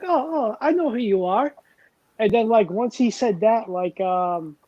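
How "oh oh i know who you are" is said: retold recognition. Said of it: "he's like".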